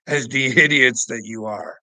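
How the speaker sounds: loud, with a laugh breaking into the insult. Real, not acted. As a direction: laugh at them as you insult them. Mocking viewers, laughing mid-line.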